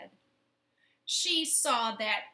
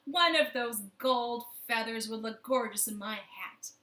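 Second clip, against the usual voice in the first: woman's thought; 6 dB louder than usual. Acted. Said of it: "and she thought".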